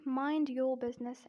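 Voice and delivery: British "your" with no R; non-rhotic British example; British accent. Shown as a demonstration. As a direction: demonstrate the phrase in a British accent. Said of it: "In British accent".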